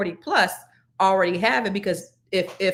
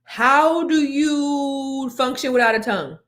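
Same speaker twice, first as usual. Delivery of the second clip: shocked question; 4 semitones higher, slower than usual. Real, not acted. Shocked at tongue removal.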